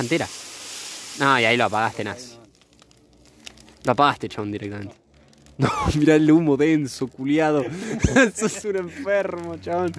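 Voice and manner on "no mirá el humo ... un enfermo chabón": high voice breaking into laughter; laughing protest. Real, not acted. To friend over the dense smoke, laughing protest. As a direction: scold a friend while cracking up.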